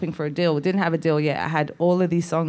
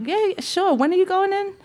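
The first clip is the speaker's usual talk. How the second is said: imitating a pop star; 13 semitones higher than usual. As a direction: voice the pop star sky-high and gentle on the call. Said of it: "Then I'm talking to Michael Jackson on the phone".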